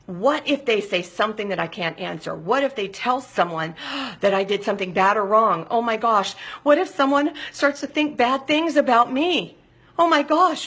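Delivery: rising, mounting worry with gasps; anxious fear. Acted. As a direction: spiral into acted panic.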